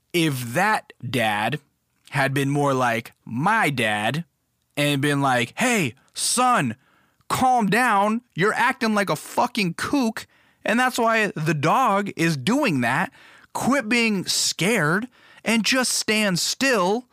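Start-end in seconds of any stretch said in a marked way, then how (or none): 5.6-17.1 higher, lightly voiced firm dad; a touch of a no-nonsense father. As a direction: talk the kid down, slowing at the end. Ideal dad calming scared son.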